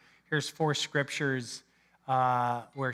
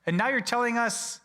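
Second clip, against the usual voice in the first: flustered protest; 4 semitones higher than usual. Retold or imitated. Disciples voiced protesting to Jesus.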